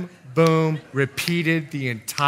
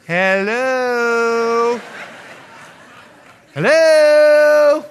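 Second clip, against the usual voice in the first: loud, higher calling out, rising; shouted hello; 6 semitones higher, 7 dB louder, much slower than usual. Acted. Preacher calling out to parents, loud and high. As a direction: call out to wake the room.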